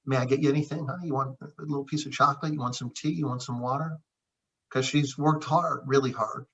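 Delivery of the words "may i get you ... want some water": soft, quick gentle offers to wife; husband softly offering his tired wife tea; tender offer to wife. Retold or imitated. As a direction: coax her kindly, softly. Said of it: "I always say to her".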